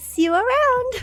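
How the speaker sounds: put-on tiny, very high babyish voice. A narrator voices one of two characters saying goodbye, in a baby voice. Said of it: "I hate this baby voice".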